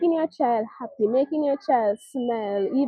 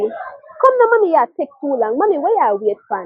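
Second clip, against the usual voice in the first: put-on impatient child voice; 4 semitones higher, 4 dB louder than usual. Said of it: "she said".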